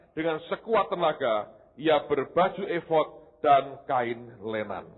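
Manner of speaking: measured public Bible reading; formal read-aloud delivery; scripture reading. Acted. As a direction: read the passage out clearly to a congregation. Reads scripture aloud to congregation.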